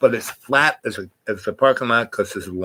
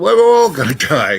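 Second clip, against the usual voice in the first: laughing it off; 6 semitones higher, 6 dB louder than usual. Real, not acted. Joking reply to grim news.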